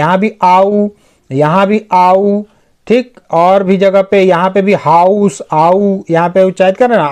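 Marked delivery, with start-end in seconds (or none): 0.4-0.9 आऊ as an open ah gliding into oo. Shown as a demonstration. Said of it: "ओ यू को हम आऊ उच्चारित कर रहे हैं". 1.9-2.4 आऊ drawn out slowly, ah into oo. Shown as a demonstration. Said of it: "ओ यू को हम आऊ उच्चारित कर रहे हैं".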